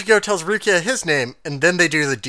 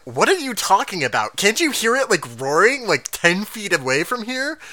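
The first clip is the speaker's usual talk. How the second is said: higher-pitched, swooping disbelieving questions; mock incredulous; 5 semitones higher than usual. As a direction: lightly act out an exasperated comeback. Acting Ichigo's incredulous retort in recap.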